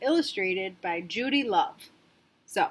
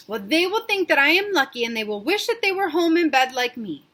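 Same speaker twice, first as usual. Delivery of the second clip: put-on whiny child; 5 semitones higher, 4 dB louder than usual. Sarah sulking to her dad about knowing nobody. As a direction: sulk it out.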